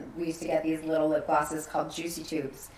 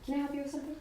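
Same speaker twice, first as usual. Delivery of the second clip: mock saleslady; 8 semitones higher, 10 dB quieter, much faster than usual. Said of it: "And she was like".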